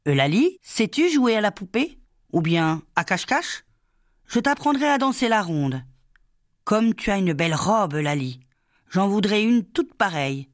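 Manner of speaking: voix plus aiguë, enjouée et rapide; jeune maîtresse câline. Acted. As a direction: amadouer une petite fille timide. La sous-maîtresse cajole Laly. (la maîtresse parle à Laly, aiguë et enjouée)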